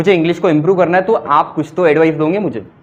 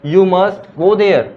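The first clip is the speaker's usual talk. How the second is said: slow, firm stress on must, every word spaced; "must" पर ज़ोर, धीरे-धीरे; forceful must; much slower than usual. Shown as a demonstration. (ज़ोर देकर धीमे "You must go there")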